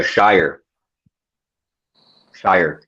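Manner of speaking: Shire said as shy-er; saying shire on request. Shown as a demonstration. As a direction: stretch out Shire the American way. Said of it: "Don't say Shire".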